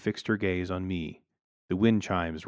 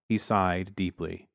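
ordinary delivery, nothing marked

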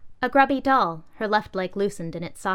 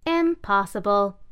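louder, slow scoff; 3 semitones higher, 6 dB louder, slower than usual. Acted. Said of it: "scoffed the laptop".

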